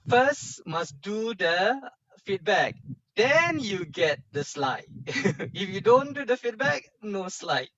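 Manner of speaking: playfully bossy warning; mock stern. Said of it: "No lah, just kidding only".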